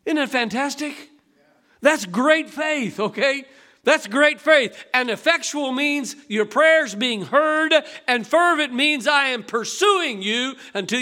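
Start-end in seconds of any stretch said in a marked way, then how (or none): 1.8-4.8 slow, loud, stretched emphasis on That's; slow emphatic preaching. Acted. Preacher to congregation, slow emphatic stress. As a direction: drive the point home slowly.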